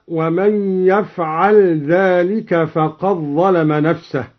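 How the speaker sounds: ومن يفعل ذلك with the l run into dh, yafal-dhalika; assimilating dal. Shown as a demonstration. Reciter showing idgham before ذلك. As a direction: merge the sound into ذلك, slowly. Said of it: "بإدغام الدال في الضاء هكذا".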